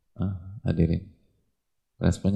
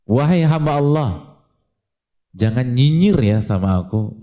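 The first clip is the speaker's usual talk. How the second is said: mock-formal plea, slightly raised and louder; worker's plea; 4 semitones higher, 4 dB louder than usual. Worker pleading with the employer, mock-formal and raised. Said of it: "Gitu bahasanya".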